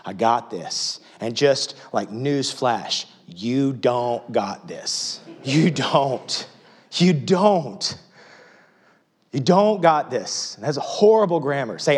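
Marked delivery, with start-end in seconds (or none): 0.0-1.0 cocky. Retold or imitated. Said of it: "we got this attitude like". 3.3-10.5 rising louder insistence; from firm to loud; building emphatic rebuke. Real, not acted. Preacher rebuking congregation emphatically.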